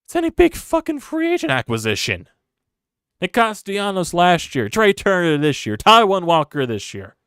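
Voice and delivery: high, loud yelling through the list of names; a fan's frustration boiling over; furious rant. Real, not acted. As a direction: blow up at the front office. Fan ranting about failed signings.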